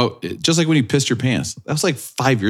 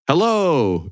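a short echoing mock yell of hello; 6 semitones higher than usual. Winston calling into the train station, mock yell. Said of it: "He goes".

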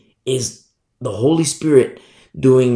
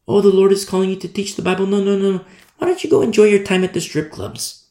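mock tempter; 4 semitones higher, much faster than usual. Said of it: "Satan offers alternatives".

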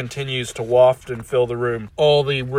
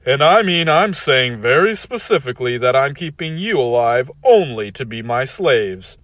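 cold rasping evil emperor; 5 dB louder than usual. Acted. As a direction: savor it like a cruel emperor. Tyrant gloats.

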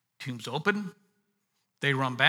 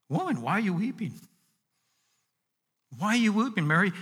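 kindly rebuking; 5 semitones higher than usual. Acted. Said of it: "in the same kindly rebuking way".

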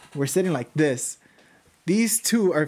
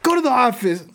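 higher, louder fed-up teacher voice; teacher dismissing; 8 semitones higher, 4 dB louder than usual. Retold or imitated. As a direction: wave him off like a tired teacher. Teacher sends him to office.

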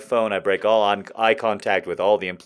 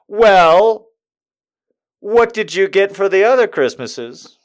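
pushy saleswoman; 9 semitones higher, 6 dB louder, slower than usual. Retold or imitated. Saleswoman pressing the customer.

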